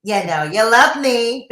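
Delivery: delighted hushed society gossip; smug gossip narrator purr; Gossip Girl tone. Shown as a demonstration. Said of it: "my perfect Gossip Girl tone".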